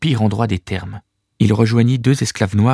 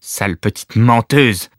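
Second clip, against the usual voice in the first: spitting rage; slower than usual. Acted. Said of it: "éructa-t-il".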